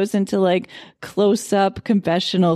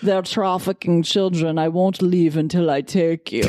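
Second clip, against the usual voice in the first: put-on Arabic accent; 4 semitones lower than usual. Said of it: "she puts on this Arabic accent".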